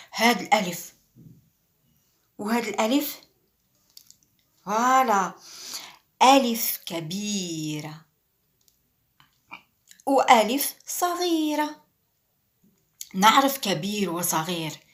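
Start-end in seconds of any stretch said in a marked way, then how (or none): 6.2-11.8 1 big then small voice. Shown as a demonstration. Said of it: "teacher contrasts big and small alif".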